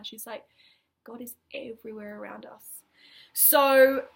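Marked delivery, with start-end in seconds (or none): 1.0-2.8 soft hushed whisper. Retold or imitated. The lady telling Rachel about God, whispered. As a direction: breathe it like a secret. Lady's gentle spiritual reply.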